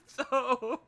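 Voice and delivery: high, loud laughing word; helpless real laughter; cracking up. Real, not acted. Cracking up over own story.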